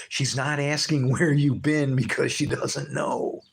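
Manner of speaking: talking through laughter; laughing. Real, not acted. Preacher joking about the wife smelling perfume, laughing. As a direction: laugh while you say it.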